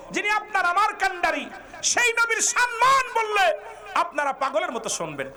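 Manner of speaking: very high chanted shout; impassioned preaching. Real, not acted. Preacher chiding listeners about honouring the Prophet, impassioned preaching. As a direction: cry it out to the whole crowd.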